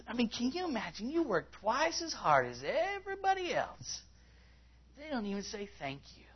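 high, put-on whine; hammed-up, high-pitched self-pity; whining. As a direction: whine like an unappreciated volunteer. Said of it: "When you whine, that's what you sound like".

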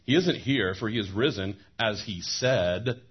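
mock the women for being surprised; an angel's sarcastic retort to the women. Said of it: "I can't help but read a sarcastic tone into verse six".

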